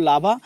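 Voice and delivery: লাভা sounded out with a clear open aa ending; shown pronunciation. Shown as a demonstration. Teacher showing students how to read it, careful লাভা with open aa. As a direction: say লাভা clearly, landing on the long aa. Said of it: "কেমন করে পড়বে এগুলো".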